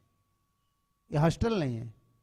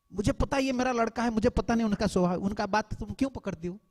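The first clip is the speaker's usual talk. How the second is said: lightly voiced mother-in-law, a bit higher; mother-in-law consoling; 5 semitones higher than usual. Mother-in-law calming the weeping bride, higher reassuring voice. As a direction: soothe the daughter-in-law like a kind mother-in-law.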